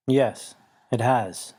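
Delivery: slow rumbling creature voice, only lightly deepened; deep rumble. Acted. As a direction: answer like a weary old beast. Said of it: "in a deep rumble".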